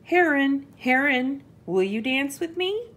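high, eager mouse invitation; little mouse calling. A narrator's reading. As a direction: call the animal, then lift into the question. Mouse calls to an animal.

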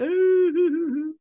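very high mock falsetto ooh; mocking villain. Vlogger mocking the villain's fake remorse, high falsetto coo. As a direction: squeal it like a fake sweet lady.

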